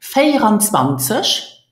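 "Vierundzwanzig" with a lifted, prompting end; whole-word model. Shown as a demonstration. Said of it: "Let's repeat the whole pronunciation".

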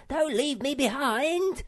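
high, loud desperate plea; pleading scream. A narrator's reading. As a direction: beg not to be left behind. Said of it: "screamed Sniff".

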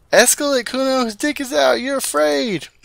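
very high, loud escalating shout; screaming. Acted. Child egging Kuno on against the cop, screaming. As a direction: crank the screaming up.

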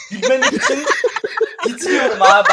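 shaking with held-back laughter; trying hard not to laugh; stifled giggles. Real, not acted. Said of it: "titreyerek gülüyorum".

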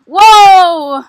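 big, falling exclamation; startled whoa. Real, not acted. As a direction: yell as the ride lurches. Ride starts swinging.

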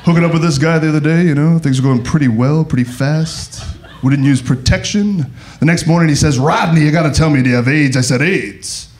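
stand-up character impression with jittery interjections; Rodney Dangerfield. Comic greets Austin in his favorite character, impression. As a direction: toss out one-liners as a borrowed comic persona. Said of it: "This is gay Rodney Dangerfield".

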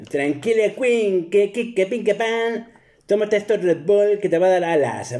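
calm the nervous singer jokingly; soothing manager. Retold or imitated. (mánager que tranquiliza en voz aguda)

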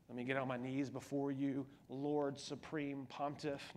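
groveling formal prayer. Acted. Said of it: "But in a loving way, not".

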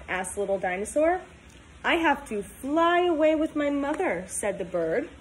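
put-on storybook read-aloud for kids; reading to children. Teacher reading a picture book to her class, storytime voice.

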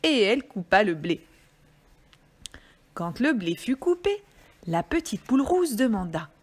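measured, melodic storytelling; story reading for children. Acted. Reader telling children about the little red hen, storytelling voice. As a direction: read it out like a picture book.

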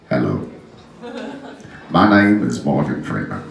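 very low, measured narrator voice; Morgan Freeman. Acted. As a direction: introduce the film in a deep, deliberate voice. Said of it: "Morgan Freeman used to do it".

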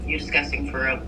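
real upset, voice dropped; crying. Real, not acted. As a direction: push the hurt out through tears. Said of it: "why are you crying".

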